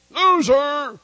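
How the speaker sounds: high, loud hammed-up yell; exaggerated shouted jeer, stretched out; mock insult. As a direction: hurl it like a comic squabble. Acts quarrel on way to church.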